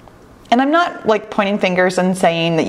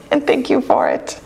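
laughing; 6 semitones higher than usual. Real, not acted. Laughing through thanks.

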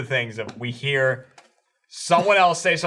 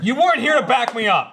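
mock whiny Eric; 7 semitones higher than usual. Mocking Eric.

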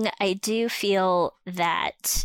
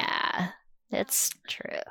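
whisper; 6 dB quieter, slower than usual. Real, not acted. Hushed agreement.

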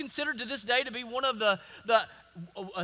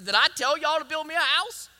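louder, higher rhetorical questions; emphatic God; 3 semitones higher, 5 dB louder than usual. Acted. Preacher voicing God questioning David, rising and loud. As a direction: press each question harder. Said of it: "He says".

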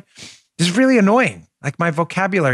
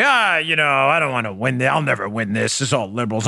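ref-working fake modesty; 6 semitones lower than usual. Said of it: "when you work the refs and you say".

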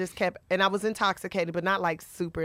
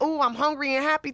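hungry and happy; 5 semitones higher than usual. Retold or imitated. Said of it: "I'm stuck in this".

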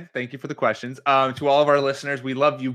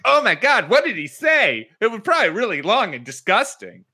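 mock scandalised reaction; 7 semitones higher than usual. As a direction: play an appalled crowd, pitched way up. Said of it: "everyone's like".

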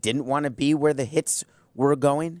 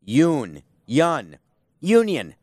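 Sesame Street Muppets; much slower than usual. Retold or imitated. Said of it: "Let's picture we're on Sesame Street".

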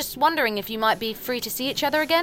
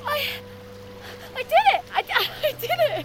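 triumphant; faster than usual. Acted. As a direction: crow with joy. Triumph after plunge.

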